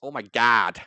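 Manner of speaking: loud American imitation; mock American accent. Teasing friends on how they sound, mock American accent. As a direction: exclaim it like a caricature American. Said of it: "That's how you sound".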